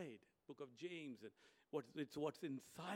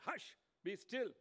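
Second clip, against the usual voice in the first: Jesus calming; 9 semitones higher, 4 dB louder, slower than usual. Acted.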